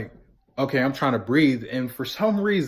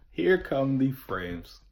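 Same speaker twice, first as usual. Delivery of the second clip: slow ominous; 3 dB quieter, much slower than usual. Retold or imitated. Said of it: "repeated announcement".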